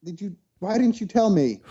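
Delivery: mock yelling in disbelief at mom; retold outraged yell. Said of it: "I yelled at my mother".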